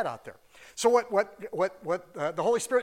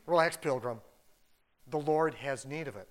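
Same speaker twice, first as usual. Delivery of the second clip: John Wayne impression; 3 semitones lower than usual. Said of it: "Channeling John Wayne".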